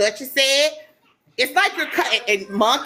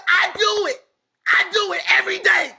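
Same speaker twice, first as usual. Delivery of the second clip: raised, insistent voice, close to shouting; emotional outburst; 4 semitones higher than usual. Real, not acted. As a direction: push back hard, voice swelling. Defending herself, getting emotional.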